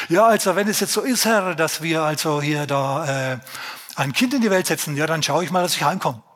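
a husband happily rushing home to his wife; lightly voiced eager old man; eager believing husband. Voices the faithful Zacharias reply.

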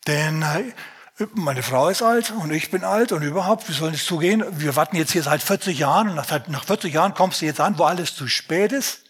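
a hint of a grumbling Zacharias; grumbling old man. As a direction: complain like a tired old man who gave up waiting. Preacher acts out Zacharias complaining.

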